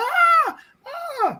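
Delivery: very high, yelping screams. Retelling a fight on a boat, imitating the other man screaming. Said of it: "he's screaming like a fucking guy".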